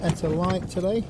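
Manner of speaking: talking outdoors in strong wind with mic noise. Real, not acted. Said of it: "We're gonna have to excuse the wind noise".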